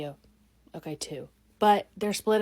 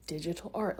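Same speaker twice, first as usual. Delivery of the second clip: slowed down; 7 dB quieter than usual. Shown as a demonstration. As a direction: say it again, slower and quieter. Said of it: "Let's slow down".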